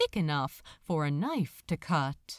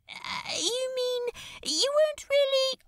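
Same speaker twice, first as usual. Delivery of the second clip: high, fast incredulous question; startled disbelief; 3 dB louder than usual. Acted. Crowley stunned that the angel died, high startled question. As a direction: voice jumps up in shock.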